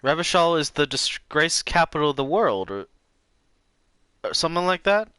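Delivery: put-on old lady voice. Lena voice, high.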